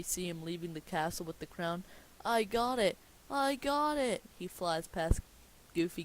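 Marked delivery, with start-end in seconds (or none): 2.2-4.2 high, loud gloating cry; gleeful triumph. Acted. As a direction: crow in triumph over the loot. Villain escapes with stolen crown.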